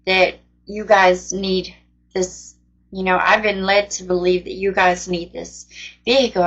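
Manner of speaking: fighting back real tears; choked up. Real, not acted. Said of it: "And now I can't even talk".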